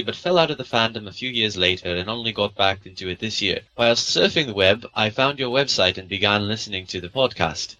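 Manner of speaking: badly faked British accent; terrible British accent. Co-host reading a UK listener's email, bad British accent. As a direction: read it in an amateur put-on British accent. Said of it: "that's a terrible British accent".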